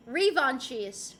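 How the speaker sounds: "Revanchiste" slowly as ree-von-cheest; trying pronunciations. Shown as a demonstration. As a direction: try "Revanchiste" with long ree and ch, falling. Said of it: "She's mispronounced my username".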